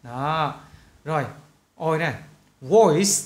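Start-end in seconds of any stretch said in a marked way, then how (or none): 2.6-3.1 "Voice" loud, with an audible S ending; final sound kept. Shown as a demonstration. Teacher warning not to lose endings, clear S in "Voice". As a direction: finish "Voice" on a clear S. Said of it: "Bạn nghe kỹ âm cuối đừng có để mất".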